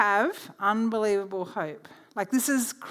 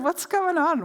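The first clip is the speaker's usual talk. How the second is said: excited; 8 semitones higher, 5 dB louder than usual. Retold or imitated. Excited retelling of surprise.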